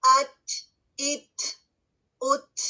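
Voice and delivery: ات with a clipped t and a puff of breath; stopped ta demo. Shown as a demonstration. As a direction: stop the sound on ات, let air escape. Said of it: "کیا ہوا جاری رہ رہی ہے".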